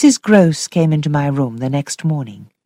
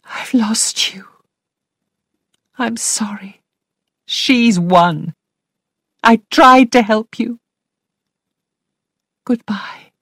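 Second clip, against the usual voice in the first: sadly; 7 semitones higher than usual. A narrator's reading. Governess giving up on Flora, sad and whispered. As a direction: let her go in a broken whisper. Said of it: "said sadly to Flora".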